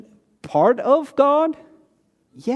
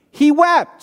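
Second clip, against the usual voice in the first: wept punched out, higher and louder, falling; stress on wept; 5 semitones higher, 4 dB louder than usual. Shown as a demonstration. Preacher answering his own question, wept punched. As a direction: hit the word wept.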